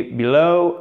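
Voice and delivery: light first syllable, long stressed end in "below,"; second-syllable stress. Shown as a demonstration. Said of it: "accentuation sur la deuxième syllabe". (« below, » accentué sur la deuxième syllabe)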